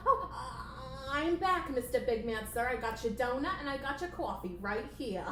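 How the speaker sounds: lightly voiced puppet assistant; eager assistant. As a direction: report back eagerly and politely. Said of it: "playing the assistant character".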